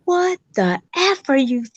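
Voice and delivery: high, furious mock yell at a trespasser; angry son yelling. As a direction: tear into the intruder at the door. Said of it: "my son opens up the door and goes".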